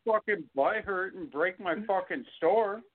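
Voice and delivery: high, exaggerated fed-up chef voice; mock angry customer reply. Chef acting out telling off a window-smashing customer, mock angry. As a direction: blast the rude customer in a hammed-up rant. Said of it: "And be like".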